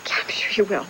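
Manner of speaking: half-hearted, breathy reassurance; unconvinced. Acted. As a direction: agree weakly, as if not really sure. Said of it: "You don't sound all that sure".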